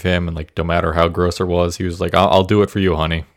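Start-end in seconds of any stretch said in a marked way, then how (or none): 2.1-3.2 put-on light Minnesotan accent; a hint of a Minnesota accent. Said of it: "You just got, like, a Minnesotan accent".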